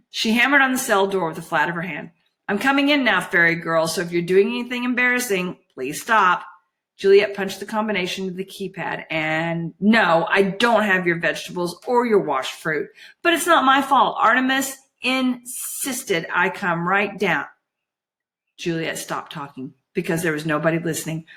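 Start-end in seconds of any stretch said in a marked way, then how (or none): 2.5-6.5 pert warning called through a door; lightly played bossy girl; lightly voiced Juliet, bossy. 9.8-17.5 put-on huffy girl making excuses; lightly played put-upon grumble; lightly voiced Juliet, defensive.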